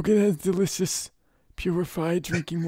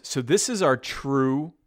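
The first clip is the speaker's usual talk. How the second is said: Brando voice; 4 semitones lower, 4 dB louder than usual. Acted. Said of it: "doing that voice".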